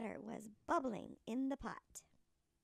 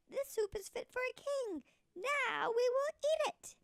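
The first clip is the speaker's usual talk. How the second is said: eager; 9 semitones higher, 5 dB louder than usual. Acted. Young man claims the soup.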